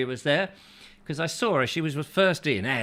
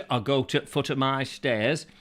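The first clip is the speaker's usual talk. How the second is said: Yorkshire phrase; 2 semitones lower than usual. Pretend. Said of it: "they talk like that".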